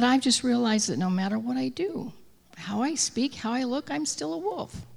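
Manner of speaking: rising, fading lament; sad confession. Acted. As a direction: let it crack toward the end.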